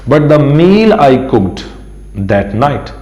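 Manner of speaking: very slow, clear English reading; slow teacher read-aloud. Shown as a demonstration. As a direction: stretch every word for learners. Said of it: "teacher reads the English line slowly".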